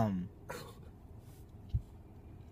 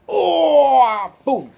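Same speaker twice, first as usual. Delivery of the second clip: much higher, louder cheer; excited cheer; 11 semitones higher, 10 dB louder than usual. Real, not acted. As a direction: cheer him up onto the lap. Baby climbs up.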